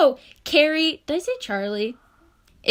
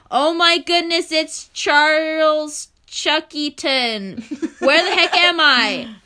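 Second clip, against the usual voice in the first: surprised; 5 semitones higher, 5 dB louder, slower than usual. Acted. Surprised character in fanfic.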